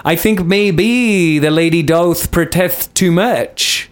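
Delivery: slow, drawn-out lizard man impression. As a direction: drag it out like a scheming lizard man. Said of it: "That was a good Lizard Man impression".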